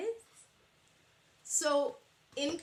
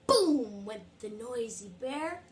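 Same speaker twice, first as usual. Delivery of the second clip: put-on lively read-aloud to little kids; storytime reading. A narrator's reading. Teacher reading a picture book to children, lively. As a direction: read it bright and animated for the class.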